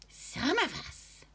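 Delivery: put-on high, slow eerie old hag; menacing witch reveal; sinister witch voice. A narrator's reading.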